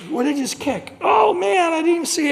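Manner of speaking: sudden high yelp of alarm, then trailing off; acted shock at a dead animal underfoot; startled shout. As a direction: jump at something unseen. Startled owner sees a carcass.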